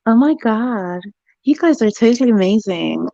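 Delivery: lightly put-on American accent; English speaker trying out an American accent. Shown as a demonstration. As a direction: demonstrate an American accent on request. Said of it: "we wanna hear your American accent".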